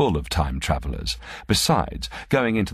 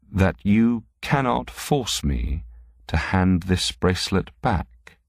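slow, deliberate and higher-pitched; slowly; 4 semitones higher, slower than usual. Acted. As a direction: draw each word out, pitched up. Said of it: "he said slowly".

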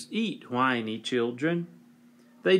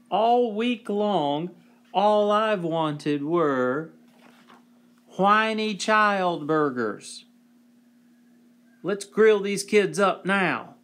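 high, loud and slow with longing; eager craving; 5 semitones higher, 3 dB louder, slower than usual. Acted. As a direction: crave those burgers out loud. Neighbor craving burgers.

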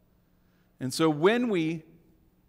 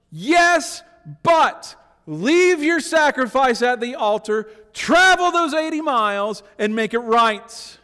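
Jesus voice; 4 semitones higher, 5 dB louder than usual. Retold or imitated.

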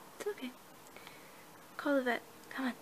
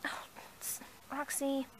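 whisper; 7 dB quieter than usual. Acted. Caught off guard by Roxy.

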